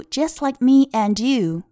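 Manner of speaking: "and you" run together as "an-dyou"; linked and-you. Shown as a demonstration. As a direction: link the d of "and" into "you". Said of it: "这个and和you可以进行一个连读".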